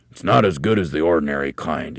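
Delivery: talking through a mouthful; mouth full. Acted. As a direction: grumble round a mouthful of food. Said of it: "talking with his mouth full".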